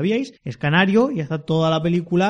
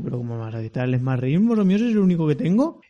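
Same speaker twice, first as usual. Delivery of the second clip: upset Frodo. Acted. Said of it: "Frodo le cogió disgusto y dijo".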